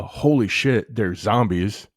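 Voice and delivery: half-hearted cry of alarm; mock yell. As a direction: act out a startled yell without full volume. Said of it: "fucking yell".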